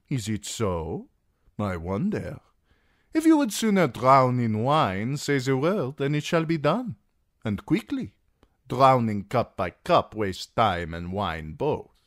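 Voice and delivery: a rich host daring his guest, relishing it; voice of Illyrio. A narrator's reading. Magister daring Tyrion to drown in wine, expansive.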